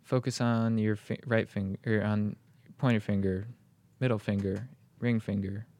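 guided meditation. Retold or imitated. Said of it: "So they'll say".

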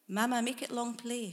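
loud call across the ride. A narrator's reading. Girl calling to her mother in the control room, loud. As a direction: shout it over to the control room. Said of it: "she called to the sour-looking woman".

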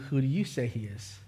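preacher hamming up a hushed dramatic question; mock dramatic preacher. Shown as a demonstration. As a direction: lean in like a preacher milking the moment. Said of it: "kind of dramatic pause, cue the music".

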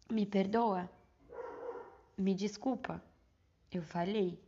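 stiff, solemn apology, word by word; formal apology. Shown as a demonstration. To her sister, a stiff and solemn apology. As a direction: recite the apology like a formal confession. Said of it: "Não falei assim".

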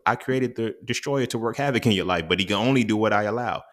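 lightly voiced God telling someone off, building in heat; God scolding. God to people handing challenges back, mock exasperated scolding. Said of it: "God literally tells you".

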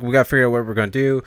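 mildly acted panic, fast and a bit loud; freaking out. The speaker to his coworker at a loss, mildly freaking out. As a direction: rush it out in mock alarm. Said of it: "he starts freaking out".

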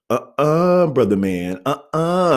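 high-pitched uh-uh, dropping on brother man; mock the cashier's emphatic refusal; imitated refusal. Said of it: "she's like".

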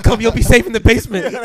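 hiding villager. Pretend.

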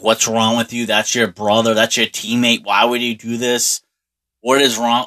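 dad laying into his son, slightly heated; mild imitated parental scolding; retold scolding. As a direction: retell a father's telling-off, mildly worked up. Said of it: "my dad just laid into".

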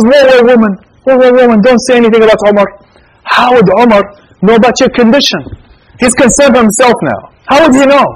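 mildly acted indignant objection; protesting. Acted objection to woman's accusation.

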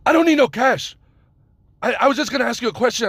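high, loud mock Middle Eastern accent; bad Middle Eastern accent. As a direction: protest in a badly faked Middle Eastern accent. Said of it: "I'm doing the fucking accent, the shitty accent".

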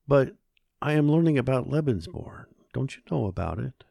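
put-on eager boy.

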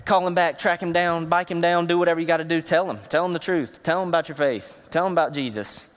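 urging him on in a run of quick commands; rally a friend to get back out there; lifted, insistent coaching; inspirational pep talk. Retold or imitated. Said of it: "I'm all about inspiration".

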